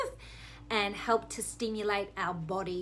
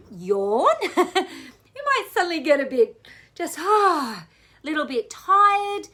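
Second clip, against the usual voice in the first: laughing as she talks, quicker; amused laugh, words tumbling out fast; 7 semitones higher, 8 dB louder than usual. Real, not acted. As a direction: giggles her way into the line. Laughs about yawning.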